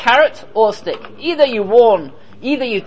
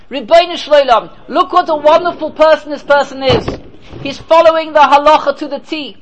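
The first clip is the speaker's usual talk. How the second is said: pleading pauper; 5 semitones higher than usual. Retold or imitated. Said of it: "What's the Oni calling out?".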